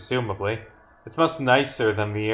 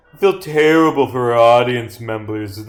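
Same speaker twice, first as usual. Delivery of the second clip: emphatic read-out; 7 dB louder than usual. Acted.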